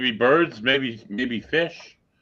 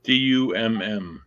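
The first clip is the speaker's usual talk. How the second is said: spelled out slowly; 5 semitones lower, slower than usual. Pretend. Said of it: "what does the dumb stand for".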